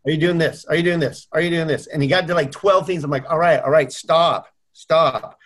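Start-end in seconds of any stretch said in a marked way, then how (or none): 0.1-1.9 rapid-fire repeated challenge; insistent questioning. Retold or imitated. Coach grilling client about activities, insistent. 3.3-5.4 repeated cut-in to halt the grilling; exasperated surrender. Retold or imitated. Client begging coach to stop listing, exasperated.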